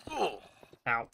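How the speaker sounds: short pained "ow" on impact; hard landing oof. Real, not acted. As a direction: yelp as you hit the ground. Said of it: "I just realized I made the oof".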